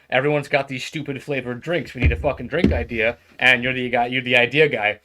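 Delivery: loud, insistent demand; pushy boss. Acted. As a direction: push him hard for an idea. Boss demanding drink idea.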